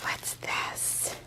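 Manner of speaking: hushed, barely audible whisper. Real, not acted. Crafter discovering what is in the package, whispering. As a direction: whisper it in wonder. Peering at the gift.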